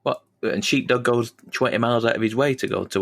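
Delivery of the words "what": usual speaking voice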